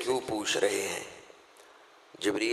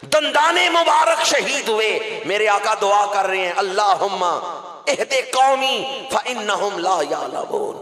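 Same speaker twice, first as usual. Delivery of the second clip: preaching at full force; 9 semitones higher, 3 dB louder than usual. Acted. Preacher to congregation on the Prophet's wounds, impassioned high cry. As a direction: pour it out like a preacher at the climax.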